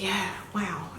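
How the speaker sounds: whispered wow. Real, not acted. Reacting to the packaging, hushed whisper. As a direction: hush it out in quiet awe.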